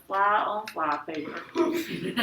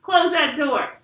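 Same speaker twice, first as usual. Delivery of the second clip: loud, raised-pitch order; family yell; 7 semitones higher, 7 dB louder than usual. A narrator's reading. Family yells at boy running in, annoyed shout. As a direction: yell it across the house. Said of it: "Joey all yelled".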